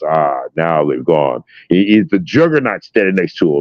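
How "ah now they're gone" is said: lightly voiced Magneto. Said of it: "he goes".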